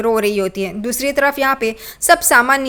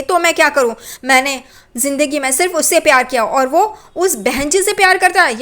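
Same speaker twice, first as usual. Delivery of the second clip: put-on jealous girl; 3 semitones higher than usual. Girl tells aunt he loves another, bitter. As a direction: spit out the jealousy.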